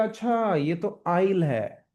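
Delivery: drawn out slowly, as if just discovering; teacher acts a learner realizing the real sound; slow realization. Shown as a demonstration. Slow, dawning realization. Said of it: "सुनेंगे तब पता चलेगा".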